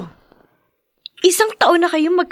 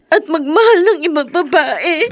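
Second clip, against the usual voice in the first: tearful; 2 semitones lower than usual. Acted. Son grieving father's new love.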